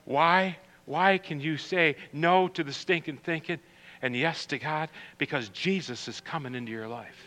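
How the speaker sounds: soft, low reading of the verses; scripture reading. Acted. Reads scripture softly.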